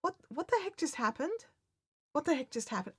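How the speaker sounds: high, questioning bewilderment; mock-stunned question; baffled. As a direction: ask it high with a puzzled rise. Baffled reaction after encounter.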